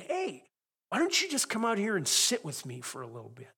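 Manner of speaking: re-enacted call, high on the first word; calling out invitation. Husband calling into the house for his wife, playful re-enacted call.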